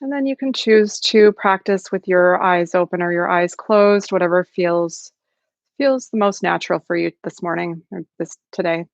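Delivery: calm, unhurried meditation guidance with long pauses; guided meditation. Acted. Facilitator settling an online group into practice, calm guided meditation. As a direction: gently settle listeners into the practice, leaving space between phrases.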